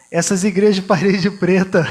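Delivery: words broken by a real laugh. Real, not acted. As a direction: laugh through the quoted joke. Laughs while quoting joke. (rindo enquanto cita a piada)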